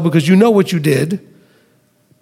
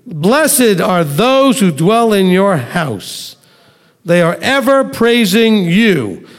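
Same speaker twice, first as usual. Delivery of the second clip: raised, unhurried reading of the psalm; scripture reading; 2 semitones higher than usual. Acted. Teacher reading Psalm eighty-four aloud to the class, reverent and slightly raised. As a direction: read the verses out to the class with reverence.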